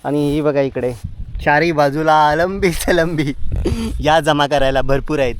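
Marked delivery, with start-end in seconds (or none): 1.4-5.4 louder, slower, marvelling at the plenty; excited. Real, not acted. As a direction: savour how many there are. Mushrooms on all sides. (चारही बाजूला अळंबी पाहून आनंदाने मोठ्याने)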